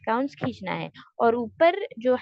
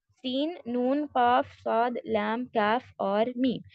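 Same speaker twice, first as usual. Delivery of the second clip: letters named slowly; slower than usual. Shown as a demonstration. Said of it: "इसका phrase है सनुकुस लकुम".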